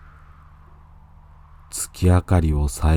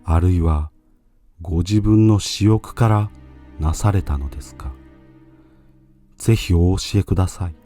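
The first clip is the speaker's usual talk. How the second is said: urgent pleading monk; 3 semitones higher than usual. Acted. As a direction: press him with tearful urgency.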